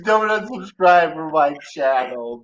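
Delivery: high, whiny begging; pathetic pleading. Pretend. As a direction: beg like a desperate gamer. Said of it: "this is pathetic".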